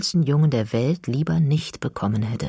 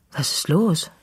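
a higher, concerned mother's question; the mother, caught off guard and worried; 4 semitones higher than usual. Acted. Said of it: "fragt sie besorgt". (besorgte Mutter, etwas höher)

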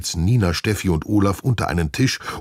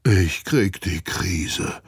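slow, drawn-out outcry; dragged-out exclamation of disbelief; exclaiming; 3 semitones higher, much slower than usual. A narrator's reading. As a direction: cry out in mild dismay. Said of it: "ruft Olaf".

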